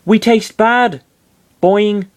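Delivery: high, loud cartoon critter voice; high-pitched creature exclaiming; odd little creature. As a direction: squeak it out as a silly creature. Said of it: "the Mister Saturn said".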